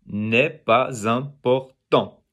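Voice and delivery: slow "N'est pas important", one open syllable at a time; correct liaison. Shown as a demonstration. Teacher repeating the correction, slow syllable-by-syllable liaison. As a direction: carry z onto the start of "important". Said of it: "It's n'est".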